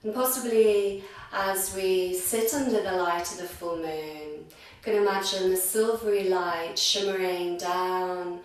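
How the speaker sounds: guided meditation. Real, not acted. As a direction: gently lead them inward, drawing out the words.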